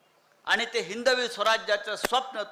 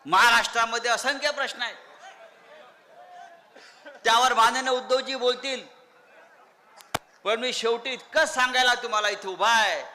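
ordinary talk, nothing marked

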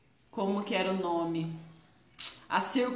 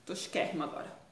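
soft breathy whisper; 3 semitones lower, 7 dB quieter, faster than usual. Real, not acted. Host showing off the poncho on her hair, whispered. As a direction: whisper it playfully.

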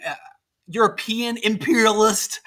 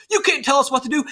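mildly indignant retort, pitched up; indignant and upset; 4 semitones higher, faster than usual. Acted. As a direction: act out a touch of outrage. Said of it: "the Texans get indignant and upset".

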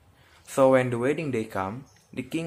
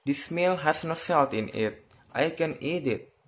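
higher, indignant complaint; a king offended by bland food; cried out, frowning; 5 semitones higher than usual. Acted. King at the wedding table complaining, indignant outcry. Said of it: "he frowned and cried out".

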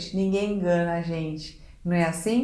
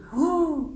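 high fearful gasp; sharp acted gasp of fright; susto de medo; 6 semitones higher than usual. Shown as a demonstration. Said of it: "O medo". (suspiro assustado de medo)

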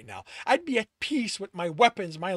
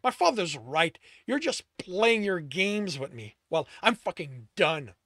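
louder and higher, ranting shout building to a yell; furious shout; 4 semitones higher, 10 dB louder than usual. A narrator's reading. Tristan yells his hurt at Alex, building fury. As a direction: let the rage climb to a scream.

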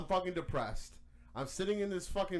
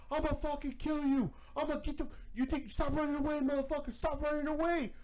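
retold threat; 7 semitones higher than usual. Men threatening fleeing bike guy.

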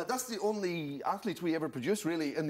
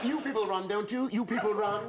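lightly caricatured adviser, pitched up; high mock-helpful suggestion; careers adviser; 6 semitones higher, 4 dB louder than usual. Careers adviser stereotyping a pupil, high mock-helpful voice. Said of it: "I asked my careers advisor".

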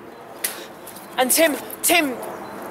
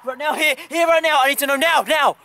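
shouting; 3 semitones higher than usual. Real, not acted. Escalating demand.

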